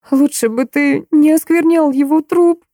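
high, slow accusing cry; shouting. A narrator's reading. Maya shouts at Hugo over her father's corpse, crying out. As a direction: hurl it at him and turn away. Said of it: "прокричала Майя".

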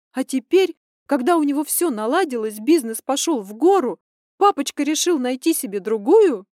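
high, loud, furious daughter venting; indignant rant. Acted. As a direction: pour it all out in rising outrage. Daughter ranting about cheating father.

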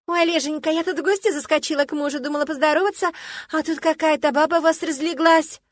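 высоко и громко, сюсюкая с мужем; засюсюкай, а потом фыркни на соперницу; приторная жена. Acted. Жена сюсюкает с мужем, брезгует героиней. (высокий громкий сюсюкающий голос)

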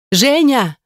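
high desperate call of a name; desperate scream. A narrator's reading. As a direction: cry out to him across the flames. Heroine screams husband's name at fire.

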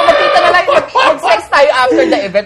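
loud invitation. Retold or imitated. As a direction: shout the offer playfully. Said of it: "Sabi ko". (malakas at natatawang paanyaya)

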